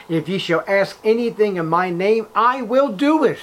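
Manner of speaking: loud, emphatic scripture declamation; ringing pulpit command; commanding authority. Acted. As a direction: proclaim it forcefully as Jesus, driving each clause. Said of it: "Notice the commanding authority".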